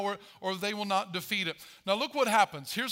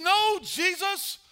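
pleading Peter; 5 semitones higher than usual. Retold or imitated. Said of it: "He said".

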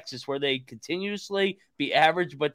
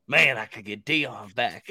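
low, slow impression of a scheming team owner; Jerry Jones; 6 semitones lower than usual. Team owner dreaming of getting Deion back, low slow mimicry. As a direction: drop the pitch and draw it out. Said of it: "Jerry was sitting there going".

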